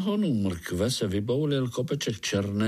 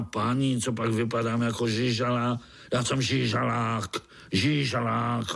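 grumpy worm. Acted. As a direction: scoff at being called madam. (posměšný žížalák)

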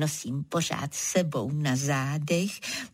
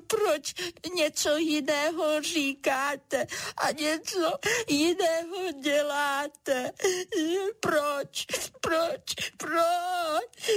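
high tearful repeated why; crying cloud; 9 semitones higher, slower than usual. Acted. Little cloud crying at the turtle and zebra, high and tearful. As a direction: sob the questions, hurt, higher. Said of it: "mrak plakal dál".

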